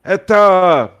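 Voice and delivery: put-on high, loud, folksy old-timer voice; squeaky cheerful old boggart greeting travellers. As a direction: play the friendly old fisherman by the fire. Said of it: "He goes".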